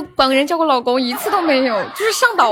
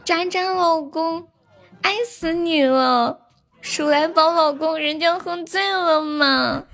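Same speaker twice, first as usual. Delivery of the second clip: 撒娇十连. Pretend. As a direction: sweetly coax each husband, half-joking. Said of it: "撒娇十连". (撒娇的语气，拖长尾音)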